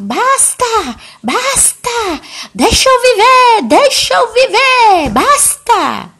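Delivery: high, loud, drawn-out wail of protest; acted hysteria. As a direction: shriek it slowly like a hammed-up hysteric. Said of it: "ela viu uma histeria".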